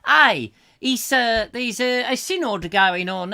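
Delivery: put-on a Roman gossiping in a faint Italian accent. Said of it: "all the Romans had a, a nice Italian accent".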